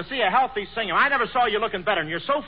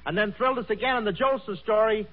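put-on old radio serial announcer; 2 semitones higher than usual. Host introduces guest.

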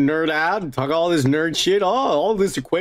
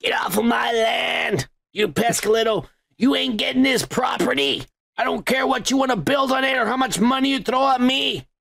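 put-on grumpy old prospector; 4 semitones higher than usual. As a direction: yell like an ornery old prospector. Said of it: "Cue the grumpy old prospector voice".

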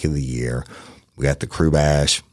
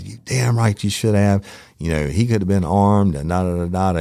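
retold telling-off, pitched higher; furious boss; 6 semitones higher than usual. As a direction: imitate a chief's heated lecture trailing into da-da-da. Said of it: "he was furious".

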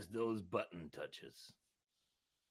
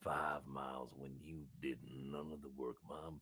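put-on lightly lowered, accented seal voice; aggressive seal; 3 semitones lower than usual. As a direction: rant at humans as an aggrieved seal. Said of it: "I don't know why I've got this accent now".

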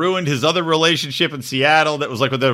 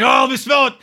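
mock eager; 7 semitones higher, 4 dB louder, faster than usual. Mimicking the guy's eagerness.

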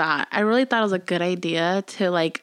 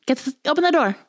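pitched-up fake innocent voice; playing dumb; 8 semitones higher than usual. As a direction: squeak it out, feigning innocence. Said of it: "And I was like".

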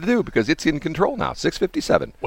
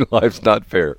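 a touch louder, quick motherly retort; mom's verdict; 4 dB louder, slower than usual. Retold or imitated. Mom repeating her stock answer, a bit louder. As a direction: snap it back like a mom. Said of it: "My mom would say".

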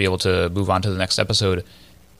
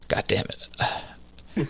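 drawn-out, breathless groan of defeat; resigned at being forced into it; annoyed co-host giving in; muttered exasperation; 3 semitones higher, 7 dB quieter, much slower than usual. Real, not acted. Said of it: "force you into doing a terrible British accent".

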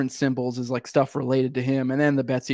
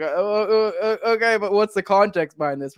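mock surprise; 5 semitones higher than usual. Mocking feds' reasoning.

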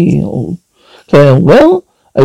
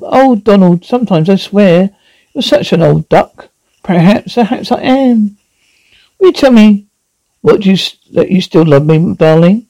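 put-on British accent; 2 semitones higher than usual. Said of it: "British accent".

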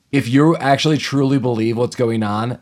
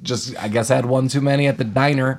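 sarcastic mock reply. Mocking the man who heard gunshots, sarcastic. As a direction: brush it off like nothing happened.

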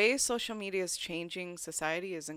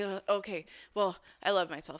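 perfunctory self-affirmation without conviction; just saying it. Shown as a demonstration. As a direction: rattle off the mantra as mere words. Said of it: "don't look in the mirror and just say".

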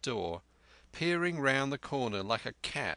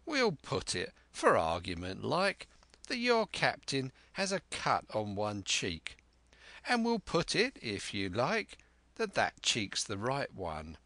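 put-on sly old pirate. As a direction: coax it like a cunning buccaneer. Black Dog voiced in story.

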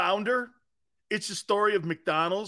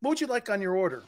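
mock waiter; 4 dB quieter, faster than usual. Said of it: "talking to Howie and Jeff".

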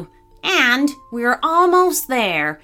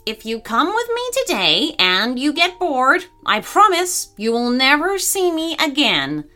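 high, pleading parrot voice; 7 semitones higher than usual. Acted. Parrot bargaining with gorilla, pleading. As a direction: plead with raised pitch, promising earnestly. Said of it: "in a pleading voice".

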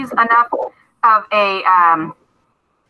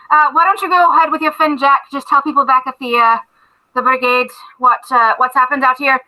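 a hint of a hearty captain giving orders; dwarf captain thanking his recruit, lightly voiced; Everard the dwarf captain.

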